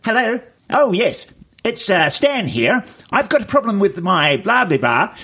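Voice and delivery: high-pitched put-on white guy phone manner. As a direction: act a telemarketer putting on a white man's voice, high and chirpy. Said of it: "a white man voice".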